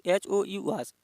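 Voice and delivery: slow teacher spelling of एच ओ यू एस. Shown as a demonstration. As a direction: spell out एच ओ यू एस slowly, letter by letter. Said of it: "ये वाले को check कीजिए".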